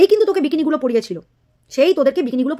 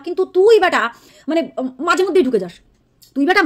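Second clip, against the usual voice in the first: angry scolding; 4 semitones higher than usual. Real, not acted. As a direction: snap at the rival with open contempt. Scolding an online rival directly.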